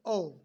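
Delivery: "ऑफ" ending in a voiced v, like "ov"; correct v ending. Shown as a demonstration. Teacher repeats the correct word, "ऑफ" said as "ov". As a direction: say "ऑफ" closing on v instead of f. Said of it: "ऑफ बोलते".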